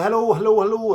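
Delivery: high, loud mock Irish hello; hammed-up Irish accent greeting. Imitating his Irish girlfriend's accent, hammed-up Irish. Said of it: "she had a proper accent".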